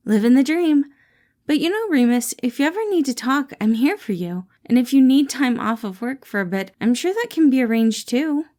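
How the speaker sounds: bright caring boss checking in; Patton voiced. Boss greets his employee Remus, cheerful caring voice.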